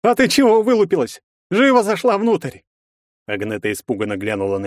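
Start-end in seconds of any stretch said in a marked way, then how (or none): 0.0-2.6 put-on rival bullies the girl inside; barking order. A narrator's reading. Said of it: "рявкнул". (рявкая)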